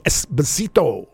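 drawn-out ethnic announcer call; imitating an old wrestling ring announcer. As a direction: boom the name like a ring announcer. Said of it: "he would try to do it in an ethnic kind of thing".

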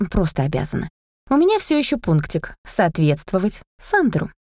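plain reading voice

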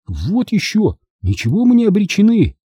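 high-pitched, indignant objection; fierce retort. A narrator's reading. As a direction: push back hard against the gloom. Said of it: "свирепо возразил Чарли". (свирепое возражение)

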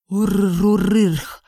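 a long rolling beastly rumble; rolling creature rumble; rumbling creature growl. Acted. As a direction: rumble it back like a huge beast. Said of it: "пророкотало существо в ответ".

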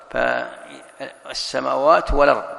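very slow فالسماوات والأرض, the hamza passed onto the lam; slow recited example. Shown as a demonstration. Teacher reciting a slow example of transfer. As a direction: stretch it out, no glottal stop in والأرض. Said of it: "ومثله الأرض".

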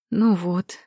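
understated, satisfied remark. A narrator's reading. Кира as the fainted woman comes round, satisfied. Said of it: "с удовлетворением произнесла Кира".

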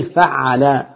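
فعل with the ع held double; doubled middle consonant. Shown as a demonstration. Teacher showing students the doubled-ayn pattern, فعل with a long ع. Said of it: "ده مزيد بتضعيف العين".

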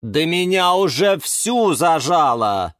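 groaning. A narrator's reading. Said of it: "простонала Галатея".

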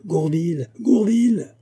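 urgent, escalating summons; repeated calling. A narrator's reading. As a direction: shout the name for someone out of earshot. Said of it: "tandis que Fouquet répétait".

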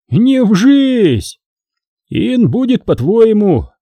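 high, stubborn refusal; defiant peasant. A narrator's reading. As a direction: dig in with a drawn-out no. Peasant defies the boyar's question.

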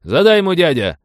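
high, loud cry from the crowd; shouted cheer. A narrator's reading. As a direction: egg him on, calling out. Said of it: "крикнул кто-то".

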